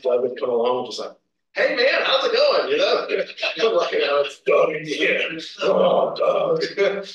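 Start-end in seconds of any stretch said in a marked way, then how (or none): 1.5-2.7 higher-pitched, chirpy greeting; mock-cheery buddy voice; happy-go-lucky friend. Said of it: "he's just happy-go-lucky". 3.9-7.0 slow, grudging groan of recognition; mock-weary grumble; bad attitude. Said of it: "When I had a bad attitude".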